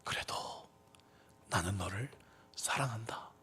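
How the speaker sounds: soft, hushed and tender; gentle whispered voice of God. Retold or imitated. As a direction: breathe it out softly like a loving voice. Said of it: "성령님께서 제게 빛을 비춰주시기". (속삭이듯 부드럽게)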